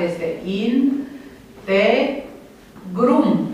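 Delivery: in, te, grum with pauses between syllables. Shown as a demonstration. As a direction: chop integrum into in, te, grum. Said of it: "Dacă împărțim în silabe". (despărțit rar: in, te, grum)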